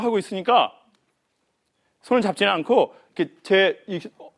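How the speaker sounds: normal talking voice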